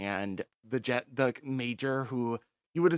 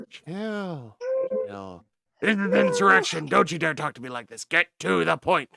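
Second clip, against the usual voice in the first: loud, higher, impatient shouting; angry commander; 7 semitones higher, 10 dB louder than usual. Acted. Commander yelling at the major over the radio. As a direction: bark it like a furious officer.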